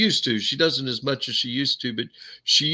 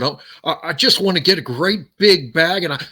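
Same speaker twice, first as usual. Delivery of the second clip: higher-pitched, stammering classic film star; Jimmy Stewart; 5 semitones higher than usual. Shown as a demonstration. Film hero dreaming of travel, in a high stammering imitation. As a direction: imitate the It's a Wonderful Life lead, stammering. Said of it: "I'll tell you who I can do".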